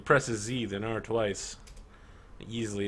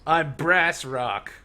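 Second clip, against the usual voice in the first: raised, loud boastful villain with a laugh; a gloating rival warrior, higher and louder; 7 semitones higher, 14 dB louder than usual. Acted. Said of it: "and says".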